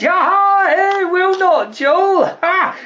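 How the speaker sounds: high, whooping amusement; giddy, cackling storyteller; laughing repeat. Acted. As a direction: relish the punchline all over with laughter. Nurse repeats the joke, laughing.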